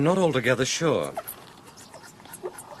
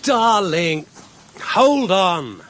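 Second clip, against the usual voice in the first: louder, higher call to someone ahead; calling after her; 6 semitones higher, 5 dB louder, much slower than usual. Acted. Calling to partner through brambles.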